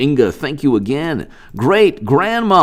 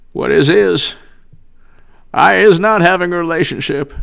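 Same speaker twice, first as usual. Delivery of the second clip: lightly voiced evasive politician; slightly raised, indignant denial in mild impersonation; Bill Clinton; 4 semitones higher than usual. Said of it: "my Bill Clinton".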